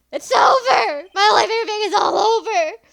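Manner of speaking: very high, very loud, anguished, despairing wailing scream. Voicing a client in a game, screaming that his life is over: screaming in despair. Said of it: "Is that your client screaming over there?".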